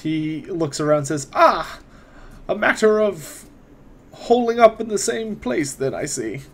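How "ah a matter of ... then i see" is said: raised, unhurried scholarly wizard. Acted. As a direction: speak as a courteous old mage. GM voices the wizard Otto.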